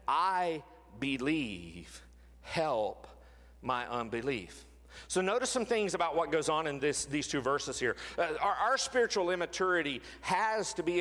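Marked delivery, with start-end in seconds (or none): 0.0-4.7 very slow, low and quiet plea; pleading cry. Retold or imitated. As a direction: draw out "I believe" like a father near tears. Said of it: "child cried out and said".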